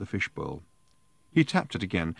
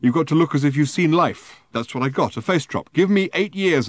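put-on high, loud drunken rant; drunken protest; 8 semitones higher, 7 dB louder than usual. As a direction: insist loudly, tipsy. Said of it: "he protested".

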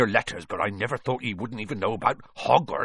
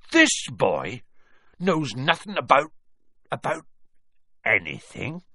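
incredulous outrage; 5 semitones higher, 3 dB louder than usual. A narrator's reading. Giant in rising outrage.

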